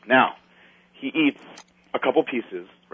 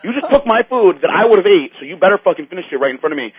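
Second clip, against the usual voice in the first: higher, insistent retold scolding; angry scolding; 6 semitones higher than usual. Scolding the friend who wasted his food, raised voice. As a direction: tell him off with a raised pitch.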